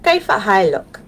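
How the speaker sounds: كيف حالك with a thick American accent, "kaif a hailuk"; strong American accent. Shown as a demonstration. Teacher admits her strong American accent saying كيف حالك. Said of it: "the way I say it ... really strong accent".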